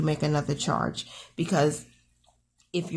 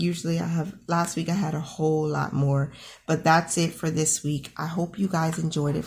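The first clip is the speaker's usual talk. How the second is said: groggy morning voice; just woke up, morning voice. Real, not acted. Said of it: "Forgive my morning voice".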